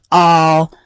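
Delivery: slow, stretched-out words with pauses; drawn-out talking. Shown as a demonstration. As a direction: drag it out word by word. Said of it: "put up with me talking like this".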